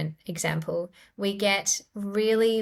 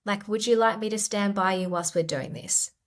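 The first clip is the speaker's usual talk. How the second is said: compassionate parent; 2 semitones higher than usual. Retold or imitated. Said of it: "is a compassionate response".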